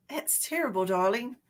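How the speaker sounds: playful mock-British, lightly put on; British accent. Host joking with viewers about her accent, mock-British. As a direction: toss it off in a pretend British accent. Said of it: "You want to hear my British accent".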